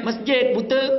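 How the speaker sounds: high, loud mock snap; husband snaps back at wife, high and loud; rude snapping reply. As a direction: bite the answer off rudely. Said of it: "Ha, kan lain".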